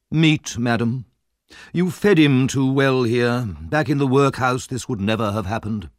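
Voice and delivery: lightly pompous, emphatic lecture; a hint of self-important official; pompous beadle. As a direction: reprove her with official certainty.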